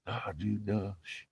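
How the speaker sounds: soft hushing, imitating shipmates; hushing buddies. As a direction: shush him softly, mock warning. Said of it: "they were like".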